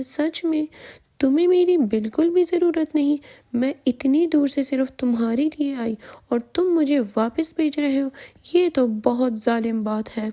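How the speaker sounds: put-on childish pleading. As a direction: pout and beg like a child. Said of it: "Carol بچے جیسا فے-، cute face بنا کے". (بچوں جیسی معصوم التجا)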